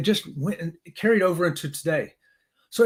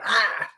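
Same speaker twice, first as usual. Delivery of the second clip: retold scream; 4 semitones higher than usual. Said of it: "I even first went".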